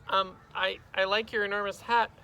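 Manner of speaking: put-on tentative kid addressing teacher; awkward schoolboy. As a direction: stumble into a polite compliment. Boy makes awkward small talk.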